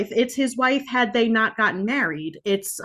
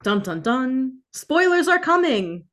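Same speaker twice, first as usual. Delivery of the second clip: dun dun dun, then a high, slow ominous warning; hammed-up doom announcement, pitch climbing; mock dramatic announcer; 5 semitones higher, slower than usual. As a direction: play it like a spooky trailer voice. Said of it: "dramatic spoiler warning".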